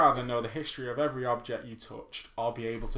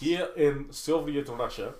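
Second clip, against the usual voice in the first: put-on Russian accent; slower than usual. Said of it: "Do that Russian accent one more time".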